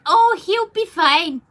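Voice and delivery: high, loud, slow dismissive parent voice, imitating them; mocking the parents. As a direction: mimic mum brushing it off, hammed-up. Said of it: "and they're like".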